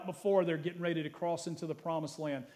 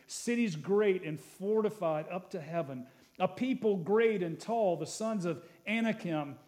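scripture reading; 3 semitones higher than usual. Acted. Pastor reads Moses' charge to the congregation, proclaiming.

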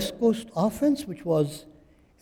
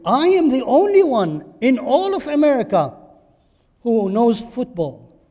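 loud, higher boast, stress on "am"; stretched mock boast; 5 semitones higher, 8 dB louder than usual. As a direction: stretch the claim out, savour the arrogance. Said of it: "Stretch the feelings".

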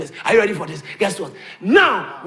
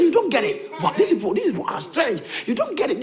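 mocking laugh; 4 semitones higher than usual.

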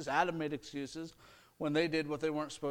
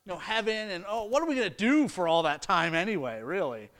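higher, whiny mock voice of someone dodging eternity; mock reluctant believer; 5 semitones higher, 4 dB louder than usual. Preacher mimicking a congregant avoiding talk of heaven, higher whiny voice. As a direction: imitate the people who brush off talk of forever. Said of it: "We can't say".

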